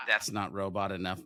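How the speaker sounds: ordinary delivery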